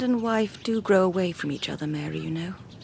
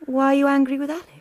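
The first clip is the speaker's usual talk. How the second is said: higher and louder, indignant question; indignant surprise; 4 semitones higher, 6 dB louder, faster than usual. Acted. Sister-in-law defending her friend to Jim, indignant. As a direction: challenge him, taken aback.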